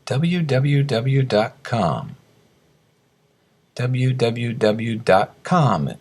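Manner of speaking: "W W W dot com" slowly spelled out for learners; slow, deliberate "W W W dot com"; each W in "W W W dot com" given distinctly; careful pronunciation model. Shown as a demonstration. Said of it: "Please listen carefully".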